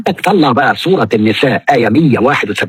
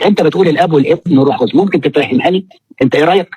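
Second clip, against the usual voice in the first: dialogue style; 4 semitones higher, faster than usual. Retold or imitated. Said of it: "لو أسلوب حوار".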